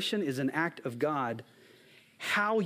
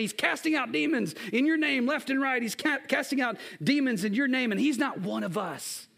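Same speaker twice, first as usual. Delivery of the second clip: higher-pitched mock complaint; acting out frustrated disciples' protest; retold frustration; 5 semitones higher than usual. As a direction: tattle on an outsider, mildly indignant. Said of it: "they are frustrated".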